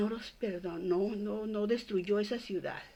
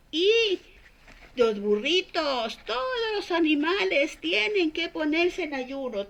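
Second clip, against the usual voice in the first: lightly voiced king issuing an edict, raised pitch; king's proclamation; 5 semitones higher than usual. Storyteller voicing the king's fasting edict to all Nineveh, lightly proclaimed. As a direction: proclaim it emphatically, drawing out key words. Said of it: "proclamó, les mandó un edicto, les dijo".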